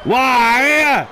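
anguished shout. Acted. Outcry at lost move.

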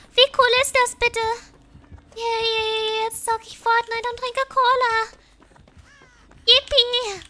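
put-on loud, high, gleeful child voice; excited German kid. Kid planning Fortnite and cola, gleeful loud imitation. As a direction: crow it like a thrilled child.

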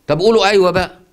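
high, loud urging; mock exasperation; exasperated plea. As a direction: push them to say yes, exasperated. Teacher mocks exasperated plea.

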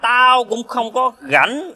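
put-on slow, high-pitched drunken retort. Drunk friend answering a brush-off, slow and defiant. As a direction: stretch each word in tipsy defiance. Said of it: "thằng sai xỉn".

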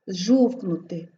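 "жовкнути" slow, with a long initial zh. Shown as a demonstration. Teacher showing зж pronounced long, drawn-out zh. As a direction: hold the opening zh of "жовкнути". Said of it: "ми вимовляємо довго".

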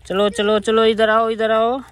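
loud call to come here; calling the monkey. Real, not acted. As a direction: call the pet over loudly. (बंदर को ज़ोर से बुलाना)

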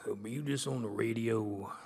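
hushed, drowsy champ impression; Muhammad Ali. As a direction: do a rough impression of the boxing legend. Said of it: "gonna do my Muhammad Ali impression".

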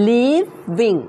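"leaving" in two careful halves, leav-ving; clear V sound. Shown as a demonstration. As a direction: sound out "leaving" slowly around its V. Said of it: "ตัว V นะคะ".

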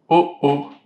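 a hint of a big papa bear; lightly voiced big bear; the father bear finding the door open, a light big-bear voice. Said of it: "de sa grosse voix".

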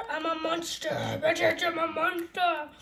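lightly voiced monster, slowing down; big monster. Player showing friends how monstrous the mic sounds, mock monster voice. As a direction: play at being a big monster. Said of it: "I sound like a big monster".

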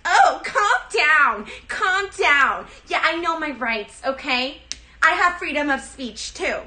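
theatrical Karen feeling threatened; hammed-up Karen. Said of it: "pull off a fucking Karen".

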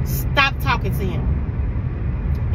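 slow, deliberate parental command; firm retold warning. Mother retelling her warning to her son about his friend, firm and slow. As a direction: draw out the order, spacing the words.

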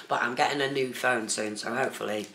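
talking while chewing; mouth full. Real, not acted. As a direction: speak through a mouthful of food. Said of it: "I shouldn't eat and talk at the same time".

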